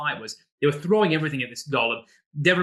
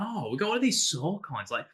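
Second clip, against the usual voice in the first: much higher, eager rush of questions; giddy, much higher brainstorming voice; excited player idea; 6 semitones higher than usual. Retold or imitated. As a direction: pitch it up like a player who's just had a brilliant idea. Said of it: "So you're like".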